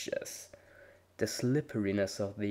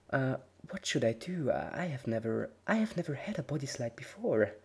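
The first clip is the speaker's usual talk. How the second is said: nervous stammer; 4 semitones higher than usual. Acted. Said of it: "looked at the mat nervously".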